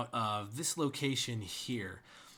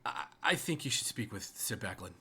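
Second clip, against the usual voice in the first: flustered guard stumbling over words; polite but halting, with repeated starts; lightly stammered, apologetic send-off; stuttering; 4 semitones lower than usual. Pretend. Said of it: "if you'd stop stuttering".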